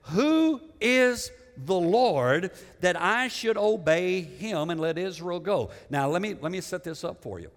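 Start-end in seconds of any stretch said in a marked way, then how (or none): 0.0-5.7 slow, drawn-out challenge to open the line; a preacher voicing a scornful king, stretching the words; haughty Pharaoh, words drawn out slowly; defiant Pharaoh. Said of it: "Pharaoh said".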